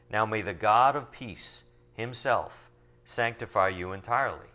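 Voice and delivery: solemn pulpit reading; scripture reading. Acted. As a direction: read the verses with reverent weight. Reads scripture aloud.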